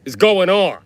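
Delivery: villain outburst. Pretend. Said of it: "Or it means".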